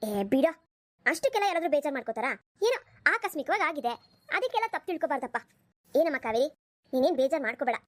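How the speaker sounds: low-pitched motherly voice, brushing it all off; an older mother calming her son and daughter-in-law; mother telling her son not to make a fuss; easygoing mother. Acted. Mother-in-law soothing everyone.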